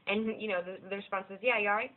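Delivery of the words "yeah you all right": British reply. Retold or imitated. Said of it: "Which is what they say".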